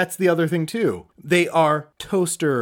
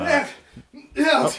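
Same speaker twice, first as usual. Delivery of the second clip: calling out; 4 dB louder than usual. Acted. Calling out from outside.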